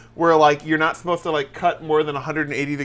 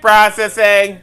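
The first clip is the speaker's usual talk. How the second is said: computer processing; 2 semitones higher, 7 dB louder, slower than usual. Pretend. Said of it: "are you the computer from".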